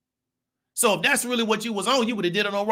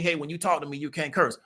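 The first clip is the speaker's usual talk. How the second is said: very calmly; 3 semitones lower than usual. Retold or imitated. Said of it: "She very calmly told me".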